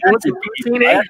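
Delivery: light Canadian caricature; mock Canadian accent. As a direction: do a hammy Canadian.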